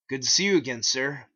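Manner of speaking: cashier voice. Acted. Cashier greets narrator.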